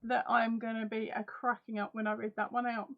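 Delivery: muffled behind her hand; hand over mouth. Real, not acted. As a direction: talk through a covered mouth. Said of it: "I've just put my hand over mou".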